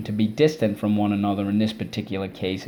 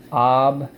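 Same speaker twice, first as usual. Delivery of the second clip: Ob-vi-us chopped into beats, louder; syllable by syllable; 3 semitones higher, 4 dB louder than usual. Shown as a demonstration. Teacher chops the word into syllables for the class. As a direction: spell it out loud as Ob-vi-us. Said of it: "Let's go".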